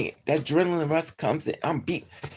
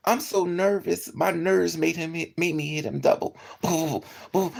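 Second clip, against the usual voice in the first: ordinary talk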